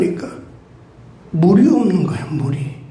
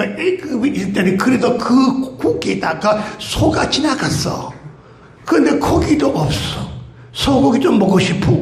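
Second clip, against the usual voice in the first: whiny complaint; 3 semitones higher than usual. Acted. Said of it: "원망불평하는 거예요".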